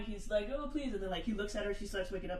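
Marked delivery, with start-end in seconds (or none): 0.5-0.9 higher-pitched pleading, lightly acted; mock crying plea. Deaf man holding his wife, mock crying plea. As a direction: imitate a tearful plea without real sobs. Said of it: "and he's crying".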